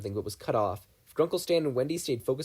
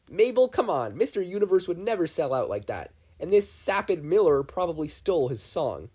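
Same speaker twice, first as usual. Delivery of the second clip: higher, louder exasperated protest; indignant; 6 semitones higher, 5 dB louder than usual. Acted. Grunkle Stan defending his idol to Mabel, indignant. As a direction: scoff at the very idea.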